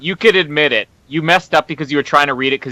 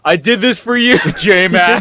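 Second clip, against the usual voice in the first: athlete's dedication; 4 semitones higher than usual. Pretend. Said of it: "stand up and say".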